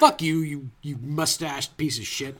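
loud, laughing mock rant; hammed-up fury at a director; mock angry rant. Mock rant at Edgar Wright.

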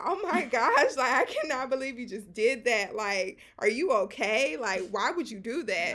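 loud, laugh breaking in at the start; laughing disbelief. Retold or imitated. Laughing at the haircutter's mistake, loud incredulous teasing. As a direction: exclaim it, incredulous and amused. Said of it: "I was laughing at her".

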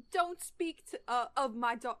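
a shaky stab at British, breaking off; attempted British accent. Reading Draco's line to co-reader, attempted British accent. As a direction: try a British accent, haltingly. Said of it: "do a British accent again".

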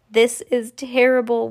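mild mock wail; lightly voiced distress; wailed, understated. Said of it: "wailed Missus T V".

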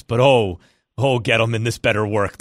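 put-on thick Boston accent, rising to a shout; hammed-up Boston accent. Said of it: "That terrible Boston accent".

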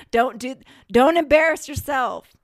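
high, loud telling-off of yourself; mock self-scolding. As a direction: scold yourself in exaggerated alarm. Acting out scolding herself.

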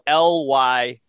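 slow, letter-by-letter spelling; one letter at a time, unhurried. Shown as a demonstration. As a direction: spell it out slowly for listeners. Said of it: "it's spelled".

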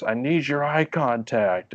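high, slow prissy demand; mock entitled guest. Guest insisting the lifeguard look at her, mock snooty. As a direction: imitate a snooty customer.

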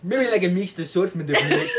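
put-on French accent drifting off course; badly faked French, played for laughs; hammed-up wandering French accent; failed French accent. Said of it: "That accent has gone so far from French".

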